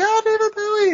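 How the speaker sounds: voice shooting up into squeal. Retelling a movie scene where a fan spots the star: imitating a voice jumping up three octaves. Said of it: "literally his voice jumps up three octaves".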